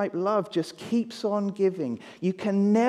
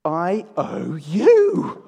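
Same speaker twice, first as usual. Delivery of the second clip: each word drawn out very slowly and louder; slow dramatic reading; 6 dB louder, much slower than usual. Shown as a demonstration. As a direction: read the note slowly for effect. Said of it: "And what does it say?".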